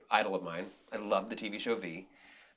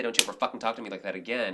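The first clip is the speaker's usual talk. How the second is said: quick, firm, even statement; assertive and calm; faster than usual. Shown as a demonstration. Director showing how to set a boundary, assertive and calm. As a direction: say it straight and assertive without heat. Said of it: "and be assertive and calm".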